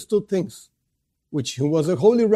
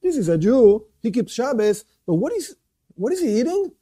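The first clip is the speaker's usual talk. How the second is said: higher-pitched questioning bystanders; puzzled onlookers; 4 semitones higher than usual. Acted. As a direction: act out onlookers puzzling over what they see. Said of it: "People look at him and say".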